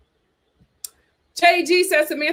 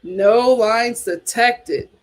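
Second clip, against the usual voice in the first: slow emphatic; much slower than usual. Real, not acted. Agreeing with a comment.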